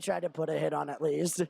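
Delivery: emphasis placed on the word "tried"; stress on TRIED. Real, not acted. Announcer qualifying an attempted hit, stressing "tried". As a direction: lean on "tried" in "tried to put a hit on". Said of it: "Emphasis on the word tried".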